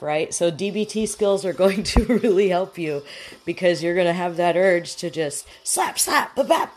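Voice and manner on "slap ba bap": smack it out like a daytime TV brawl; mock slapping noises. Host mimics slapping a rude person, playful slap noises. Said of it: "Jerry Springer coming out".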